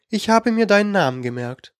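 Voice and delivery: hohe, perlende Stimme einer verspielten Königin; verführerische Königin. A narrator's reading. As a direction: neckisch und lockend fragen. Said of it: "fragte sie und lachte perlend". (kokette Königin, hoch und verspielt)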